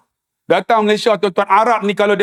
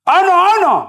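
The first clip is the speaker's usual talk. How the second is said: flustered stammer; 9 semitones higher, faster than usual. Retold or imitated. Lost uncle groping for Arabic.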